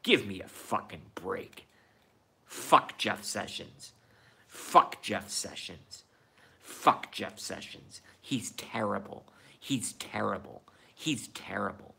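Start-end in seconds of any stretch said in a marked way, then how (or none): 2.5-3.9 each word slow and deliberate; slow emphatic curse. Real, not acted. Repeated curse fading to whisper. 4.5-8.0 slow hissed whisper; whispered curse. Real, not acted. Repeated curse fading to whisper.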